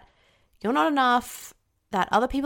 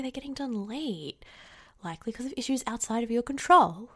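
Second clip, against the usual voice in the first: deflated inner voice; 5 dB quieter than usual. Acted. Voicing deflated inner thoughts.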